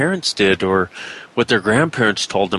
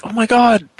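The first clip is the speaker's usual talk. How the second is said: amazed realization; 12 semitones higher than usual. Acted. Host acting out hearing the popping sound at last, amazed. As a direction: exclaim as if it all suddenly dawns. Acts out a sudden revelation.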